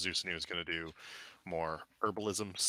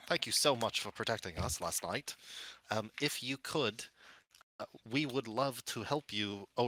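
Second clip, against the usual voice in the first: lightly nasal little gnome greeting; a hint of a nasal gnome. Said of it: "a high-pitched, like, not a whiny voice, but a nasally voice".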